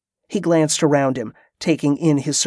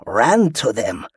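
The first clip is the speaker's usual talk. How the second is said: slow, lower, savoring the words; taunting pirate; 3 semitones lower, slower than usual. A narrator's reading. Wounded pirate taunting the commander, slow and low. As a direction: let it sink in slowly.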